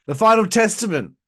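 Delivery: booming wrestling announcer name call; announcer callout. Pretend. Vlogger hyping the team like a ring announcer, booming.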